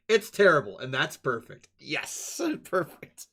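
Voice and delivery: ordinary delivery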